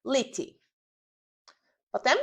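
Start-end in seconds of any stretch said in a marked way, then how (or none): 0.0-0.6 "lity" alone as a word ending; "lity" set apart, li-tee; back-chaining drill. Shown as a demonstration. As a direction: model the fragment "lity" carefully for repetition. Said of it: "Dodajemy przedostatnią".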